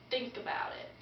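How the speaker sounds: soft, breath-only delivery; hushed advice. Pretend. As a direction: let it sink in, hushed. Drawn-out ominous advice, then echoed.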